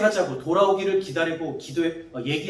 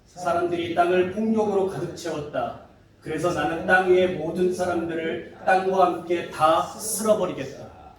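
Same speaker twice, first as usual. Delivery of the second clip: voice of God. Acted. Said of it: "하나님께서 노아에게 말씀하셨습니다".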